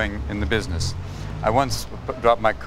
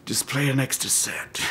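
whisper; 5 semitones higher, 6 dB quieter than usual. Retold or imitated. Whispered tennis aside.

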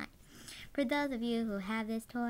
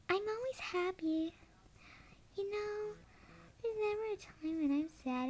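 high, happy character voice; high cheerful voice; 5 semitones higher than usual. Pretend. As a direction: chirp it up high.

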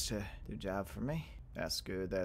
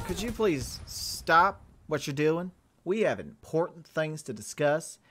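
higher, louder polite protest; mock-polite scolding; 3 semitones higher, 4 dB louder than usual. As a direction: firmly ask them to stop, playfully indignant.

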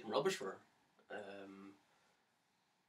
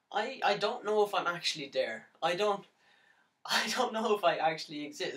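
anguished self-doubt; 3 semitones higher, 4 dB louder than usual. Acted. Doubts own existence in despair.

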